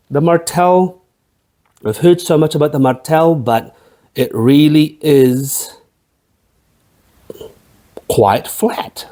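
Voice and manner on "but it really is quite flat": whisper. Acted. Mock confiding about the Martell.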